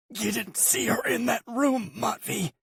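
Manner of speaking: high, urgent plea; pleading brother. A narrator's reading. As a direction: make him understand.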